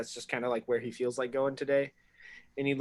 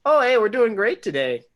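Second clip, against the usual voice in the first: joking invisible voice; 8 semitones higher, 10 dB louder than usual. Acted. Invisible character joking loudly.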